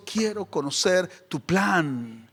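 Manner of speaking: slow, soft, low plea; humble request to God, unhurried; hushed altar prayer; earnest quiet prayer. Acted. Voices young people praying at altar.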